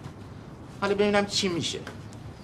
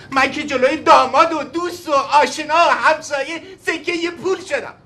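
angry shout; 3 semitones higher, 3 dB louder than usual. Acted. Husband shouts at wife.

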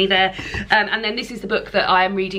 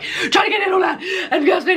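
sped up; 11 semitones higher than usual. Shown as a demonstration. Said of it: "listening to those quite sped up".

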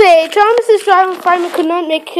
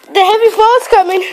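warning shout; 3 semitones higher than usual. Acted. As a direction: call out the danger ahead. Driver warns of snow.

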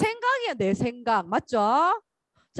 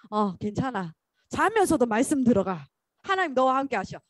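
gentle reassurance; 2 semitones lower than usual. Retold or imitated. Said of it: "이렇게 보여요".

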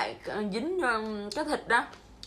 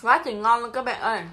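excited exclaim; 8 dB louder than usual. Real, not acted. Loud delighted food exclamation.

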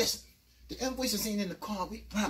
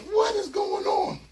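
much higher, louder, slow; alarmed; 11 semitones higher, 6 dB louder, slower than usual. Retold or imitated. Narrator waking up soaked. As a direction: cry out in confusion. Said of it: "I'm like".

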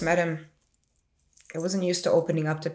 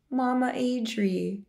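slow, higher, soothing coo; gently drawn-out pet name; tender comforting; 6 semitones higher, slower than usual. Retold or imitated. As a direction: imitate him consoling her, drawing the name out. Boyfriend comforting her, retold.

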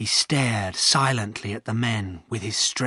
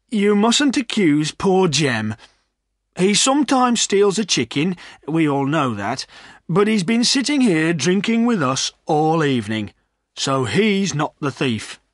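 higher, emphatic landlord voice; remonstrating landlord; 5 semitones higher, 4 dB louder than usual. A narrator's reading. Landlord defending the poacher to Silas, earnest.

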